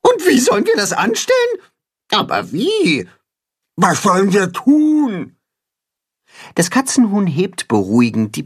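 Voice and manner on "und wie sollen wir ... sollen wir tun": much higher, anxious overlapping questions; high anxious chorus of farm animals; worried animals clamouring. A narrator's reading. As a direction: cry out in a worried jumble. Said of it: "Alle rufen durcheinander".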